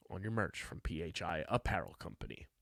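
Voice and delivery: soft unvoiced whisper. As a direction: breathe the words in a whisper. Whispered tail of the ad.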